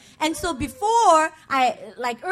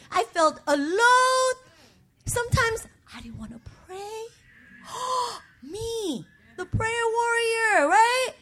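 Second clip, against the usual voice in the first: real tears; 4 semitones higher than usual. Real, not acted. Crying while confessing.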